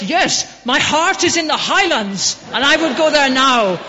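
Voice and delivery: rising fervour, the voice lifted high and loud; impassioned recitation. Retold or imitated. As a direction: declaim the poem like a proud Russian fan. Russian stranger recites Burns in street.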